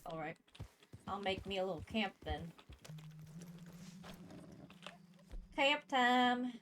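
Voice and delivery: over-the-top Southern cowboy voice; exaggerated southern accent. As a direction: lay the Southern accent on thick. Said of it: "Nice southern accent".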